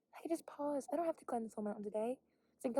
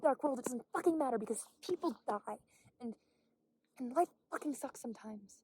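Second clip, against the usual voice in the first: impassioned rant; 3 semitones higher, 3 dB louder than usual. Real, not acted. Passionate rant about enjoying things.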